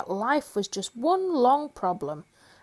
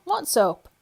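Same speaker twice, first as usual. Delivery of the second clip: small voice; 5 semitones higher, 4 dB louder than usual. Acted.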